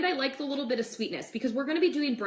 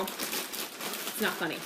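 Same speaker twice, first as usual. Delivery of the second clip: mock sulky whisper; 3 semitones lower, 6 dB quieter, much slower than usual. Mock complaint after laughing brothers.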